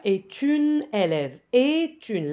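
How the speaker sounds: "est une" linked with a sounded T; slow, careful "est une", T carried into "une"; liaison on T. Shown as a demonstration. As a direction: join "est une" through the T. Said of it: "le T, on le prononce".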